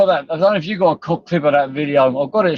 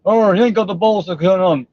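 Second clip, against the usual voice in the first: mocking taunt; 5 semitones higher, 3 dB louder than usual. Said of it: "for fuck's sake".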